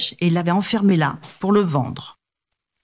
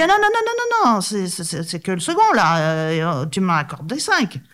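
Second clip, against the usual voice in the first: panicked brahman; 2 semitones higher than usual. Acted. Brahman pleads hurriedly.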